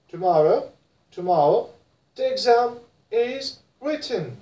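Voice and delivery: British tomorrow and written, crisp t; British accent. Shown as a demonstration. Teacher models British written: British accent. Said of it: "But in British".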